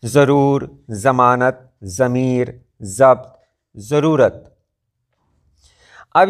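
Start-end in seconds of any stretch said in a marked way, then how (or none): 0.0-4.5 ज़रूर, ज़मानत, ज़मीर, ज़ब्त, ज़रूरत each with a plain z; zwad said as z. Shown as a demonstration. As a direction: list the words one by one, plain Urdu z at the start. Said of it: "ये भी ज़े के ही तलफ़ुज़ में".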